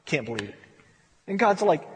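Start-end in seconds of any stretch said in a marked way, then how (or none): 0.1-0.6 low, hushed grumble; grumbled complaint. Acted. Believer complains to God, in a low, quiet grumble. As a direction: drop it under your breath.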